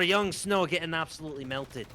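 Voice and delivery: put-on Scottish accent commentary. Caster keeping up a Scottish accent for the match, Scottish accent. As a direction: call the play in a Scottish accent. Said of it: "managed to stick to the Scottish accent".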